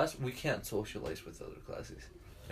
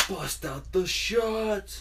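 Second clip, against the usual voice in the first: slow drawn-out party cheer, pitched up; hyped shout; 7 semitones higher, 4 dB louder, much slower than usual. Retold or imitated. Hyped teens calling for shots.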